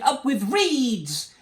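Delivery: high, loud, long-drawn call; stretched-out hoot of delight. A narrator's reading. Duckbill herd hooting with delight, slow high hoot. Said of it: "And they hooted".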